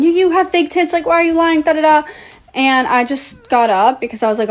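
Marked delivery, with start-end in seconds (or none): 0.0-2.0 mild retold yell. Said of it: "She started yelling".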